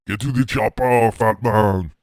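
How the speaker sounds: loud mock action-movie bark with a German accent; a hammed-up loud action-hero line in a German accent; action-hero shout. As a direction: yell the order like a movie commando. Arnold movie quote, shouted.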